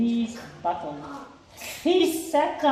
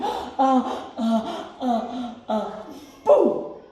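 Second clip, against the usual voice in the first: cheeky mouse shouting boo; shouted boo; much slower than usual. Acted. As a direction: jump out and shout boo to give a scare. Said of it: "shouted a little brown mouse".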